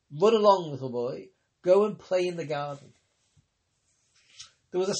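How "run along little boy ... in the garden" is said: put-on shooing a child. Mimicking a parent shooing child.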